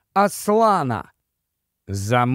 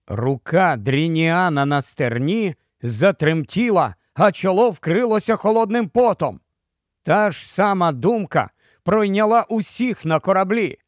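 usual speaking voice

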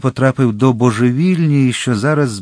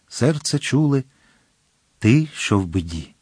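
poem recital. Acted. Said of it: "ось воно".

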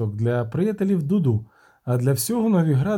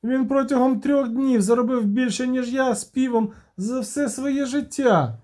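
much higher, whining complaint of a jealous bard; aggrieved bard; 11 semitones higher than usual. A narrator's reading. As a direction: moan about the halfling out-earning him. Любисток скаржиться Геральтові. (Любисток ображено скаржиться Геральтові, високим жалібним голосом)

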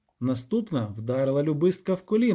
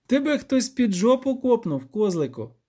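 higher, mocking jab; 7 semitones higher than usual. A narrator's reading. Dandelion mocks the goat creature, sneering. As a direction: poke fun at the goat. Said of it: "не витримав Любисток".

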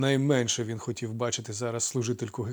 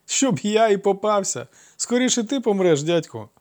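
high, loud gloating; sly laughing boast; 9 semitones higher, 8 dB louder than usual. A narrator's reading. Trickster mocks uncle through laughter. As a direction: crow it like a trickster. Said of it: "розреготався лукавий".

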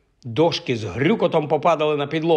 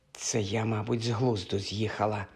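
much softer, lower whisper to herself; 3 semitones lower, 9 dB quieter than usual. A narrator's reading. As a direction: confide to the suit under her breath. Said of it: "шепнула вона блакитно-срібному костюму". (пошепки, тихо й нижче)

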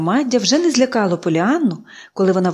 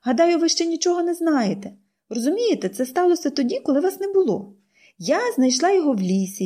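put-on high, eager little girl pleading; bright girlish voice, much higher; girl's voice; 5 semitones higher than usual. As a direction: play the chatty hopeful girl. Pollyanna voiced by narrator.

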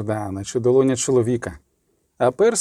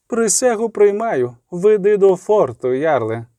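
regal acceptance; 6 semitones higher, slower than usual. Acted. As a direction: accept the oath with authority. Queen accepts the oath. (королева урочисто приймає присягу)

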